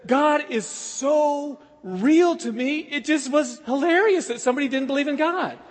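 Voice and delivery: slow, drawn out words through laughter; laughing it out. Retold or imitated. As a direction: laugh as you say how real God is. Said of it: "Herschel laughed in his face".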